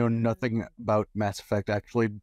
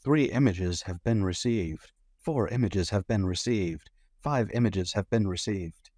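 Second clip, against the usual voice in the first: automated voice. Pretend. Automated announcement voice.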